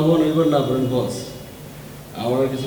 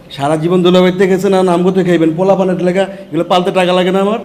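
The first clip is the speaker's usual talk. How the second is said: louder, raised, insistent grievance; heated complaint; 4 semitones higher, 5 dB louder than usual. Acted. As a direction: argue hotly for your money. Henchman argues for his money.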